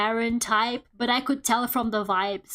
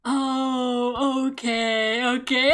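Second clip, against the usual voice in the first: amused okay; much slower than usual. Retold or imitated. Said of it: "we were like".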